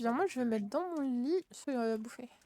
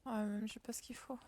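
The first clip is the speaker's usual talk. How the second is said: whispering; 2 semitones lower, 10 dB quieter than usual. Real, not acted. Aside muttered during game.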